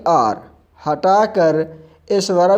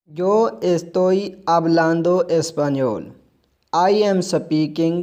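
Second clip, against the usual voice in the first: very slow, careful reading for learners; slow model sentence; much slower than usual. Shown as a demonstration. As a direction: lay each word down slowly. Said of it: "present continuous tense in Spanish".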